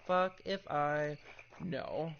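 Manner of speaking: slow drawn-out put-on voice; mock drawl. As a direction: stretch it out lazily in a silly voice. Repeats phrase in new voice.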